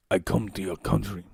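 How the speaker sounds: low, put-on South American accent; South American accent attempt. Shown as a demonstration. Streamer testing a South American accent. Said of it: "I was fucking around with accents".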